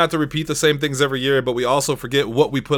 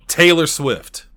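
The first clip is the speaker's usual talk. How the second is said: dramatic reveal; much slower than usual. Acted. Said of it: "dramatic reveal".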